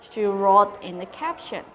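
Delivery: lively storybook narration for pupils; reading to children. A narrator's reading. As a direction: read it aloud like a teacher to her class. Teacher reads story to pupils.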